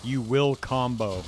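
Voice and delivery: loud, slow commanding bark; raging gamer boss. Pretend. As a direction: order them like a tyrant boss. Boss barking orders at staff.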